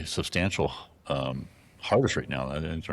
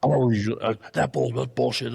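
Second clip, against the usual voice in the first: mock angry owner; 7 semitones higher than usual. Angry lodge owner telling the narrator off, mock outburst. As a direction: blow up in mock outrage. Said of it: "the owner will not talk to me".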